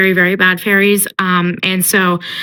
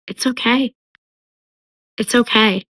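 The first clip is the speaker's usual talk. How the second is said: gentle reassurance; 3 semitones higher than usual. Retold or imitated. Feyre comforting the wounded fairy, gently reassuring. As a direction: soothe gently, leaving space between phrases.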